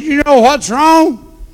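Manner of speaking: God rebuking. Retold or imitated. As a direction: call him out like the Lord. Voicing God's rebuke.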